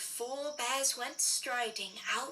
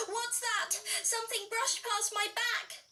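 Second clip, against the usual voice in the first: startled; 8 semitones higher than usual. Acted. Grace startled in dark.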